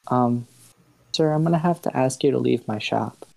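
mildly apologetic shopkeeper asking him out; very polite. Acted. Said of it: "That's a very polite way of saying that".

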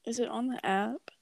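soft unvoiced whisper. Real, not acted. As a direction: whisper it to your friend. Whispered aside to cohost.

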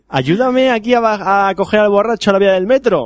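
high, breezy favour asked offhand; casual request. Retold or imitated. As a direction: ask for help like it's nothing. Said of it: "y dice".

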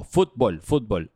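"fútbol" repeated with a clear U in the first syllable; U, not O. Shown as a demonstration. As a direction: drill "fútbol", FÚT with a U, never FOT. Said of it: "Con U, no con O". ("fútbol" con U, no con O)

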